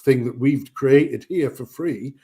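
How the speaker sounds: deep American ad voice. Retold or imitated. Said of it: "American accent ... deep American accent".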